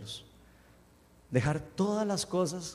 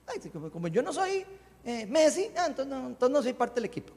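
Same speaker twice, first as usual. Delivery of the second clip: mock complaint; 7 semitones higher than usual. Mock complaint of a team member.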